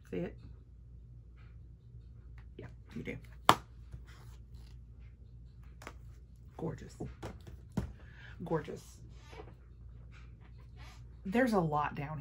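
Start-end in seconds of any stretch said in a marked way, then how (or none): 0.1-9.0 hushed awe. Real, not acted. Admiring the palette up close.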